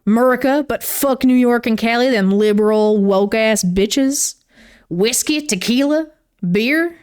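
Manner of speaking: lightly put-on Southern accent; a hint of a Southern drawl, half joking. Shown as a demonstration. Vlogger joking her way through a country starter pack, faint Southern accent. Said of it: "I should probably talk in a Southern accent".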